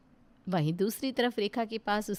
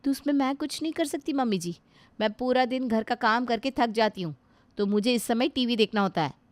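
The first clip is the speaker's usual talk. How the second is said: lightly voiced sharp young wife, a bit higher; rude daughter-in-law; 4 semitones higher, 4 dB louder than usual. Daughter-in-law refusing to give up the TV, curt and dismissive. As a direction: brush off the old woman rudely.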